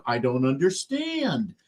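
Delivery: slow, feigned bewilderment; straight-faced. Retold or imitated. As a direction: play dumb with a straight face. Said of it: "keep a straight face".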